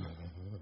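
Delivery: soft mock animal panting; quick imitation of panting; imitated panting. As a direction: pant like the donkey, quietly. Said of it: "he just started panting and going".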